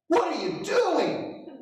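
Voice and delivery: high, slow shocked shriek; wife shrieks at the driver after the crunch, stunned and high; startled cry. Retold or imitated. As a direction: stretch out the alarm in a high voice. Wife yells at crash.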